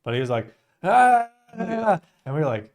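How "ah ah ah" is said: high, loud slurred holler; drunk yelling. Retold or imitated. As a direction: imitate a drunk Aussie yelling from afar. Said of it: "drunk Australian guy that yelled at us".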